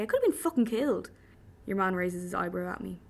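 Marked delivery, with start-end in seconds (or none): 0.0-1.1 indignant. Acted. Indignant retort after escape attempt.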